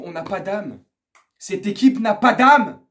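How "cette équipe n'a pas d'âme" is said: loud, slow, hammered indictment; angry emphasis. Real, not acted. Fan declaring the team has no soul, angry. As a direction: drag out and punch "pas d'âme". Repeats it forcefully.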